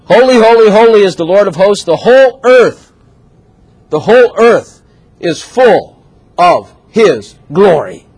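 loud, slow, exalted proclamation; slow grand angelic proclamation; proclaiming angels. Retold or imitated. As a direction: ring it out like seraphim crying holy. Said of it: "these angels are singing".

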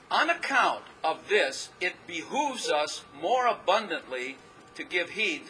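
slow, measured Bible reading; solemn slow reading from Hebrews; scripture reading. Acted. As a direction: read it out deliberately, weighing each word. Reads scripture slowly.

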